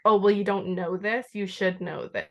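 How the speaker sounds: mildly mocking, condescending quote. Industry professionals talking down to a beginner, condescending. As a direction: imitate a demeaning know-it-all lightly. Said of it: "very condescending and demeaning".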